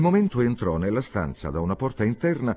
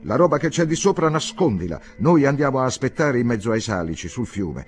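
louder and higher, calling across the yard; 5 semitones higher, 5 dB louder than usual. Acted. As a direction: shout instructions while hurrying past. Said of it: "gridò". (gridando da lontano, ad alta voce)

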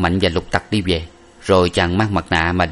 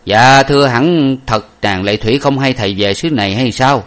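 a servant answering his master, higher and louder; humble servant; 5 semitones higher, 4 dB louder than usual. Acted. Servant humbly denies knowing to his master, higher. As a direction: speak up respectfully to the master. Năm Mạnh asks master.

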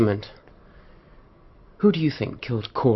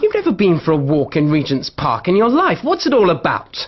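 sharp, louder accusing challenge; 2 semitones higher, 5 dB louder than usual. Acted. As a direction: call out the lie, pressing hard. Wife confronts lying husband.

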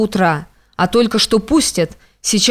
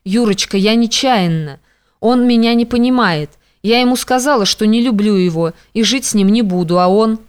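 usual speaking voice

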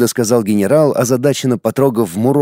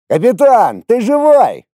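louder, higher call through a door; 11 semitones higher, 4 dB louder than usual. Acted. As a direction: call out to find him alive.

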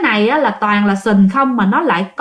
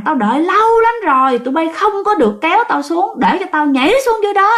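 raised, higher yell, speeding up at the end; possessed man shouting at neighbours to let him go; 6 semitones higher than usual. Retold or imitated. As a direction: shout that he has waited long to jump. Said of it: "Và cái ông này ông la".

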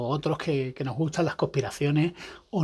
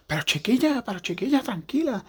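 imitating a soothing husband; 6 semitones higher than usual. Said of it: "al marido de mi vecina intentando". (imitación suave del marido consolando)

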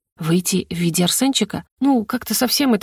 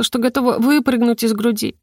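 usual speaking voice

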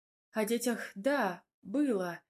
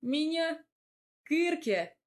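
high, louder astonished questions; incredulous; 8 semitones higher, 4 dB louder than usual. A narrator's reading. She reacts to his jealousy claim, astonished. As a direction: sound shocked at the idea. Indignant disbelief.

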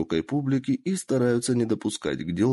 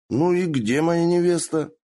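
higher, louder impatient demand; demanding shout; 7 semitones higher, 4 dB louder than usual. Acted. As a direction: bark for the bride impatiently. Drunk prince demands bride.

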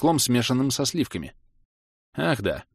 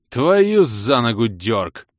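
slow, drawn-out groan of despair; 2 semitones higher, 6 dB louder, much slower than usual. Acted. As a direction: moan it out slowly, fed up. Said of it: "простонал я".

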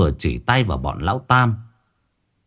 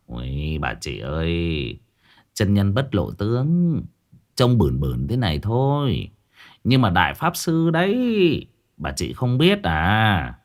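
bragging sidekick; 3 dB quieter than usual. Acted. Quyết Thọt brags about master.

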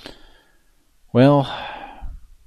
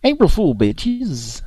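loud shout; 11 semitones higher, 4 dB louder, slower than usual. Real, not acted. Repeating the prank sign-off.

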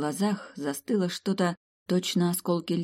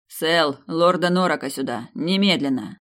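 commanding emperor; 5 dB louder than usual. Acted. Emperor summons an aide.

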